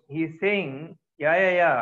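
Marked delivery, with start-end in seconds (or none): 1.2-1.7 provoking. Retold or imitated. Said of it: "He is now provoking".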